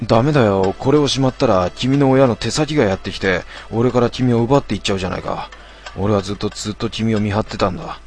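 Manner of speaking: obsessive man voice. Acted. Stalker refusing, obsessed.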